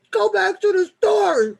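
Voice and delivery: high, loud mock yell of Alita. Imitating the viewer Alita yelling at him to go back. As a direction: mimic her bossy shout, crying with laughter. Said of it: "Alita yelling at me".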